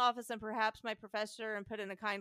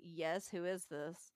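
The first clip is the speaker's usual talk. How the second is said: a touch lower and slow, a wary official; lightly voiced busy man; 4 semitones lower, 4 dB quieter, slower than usual. Podcaster voicing the busy utilities man, a hint of wary official. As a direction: answer a stranger's call with mild suspicion.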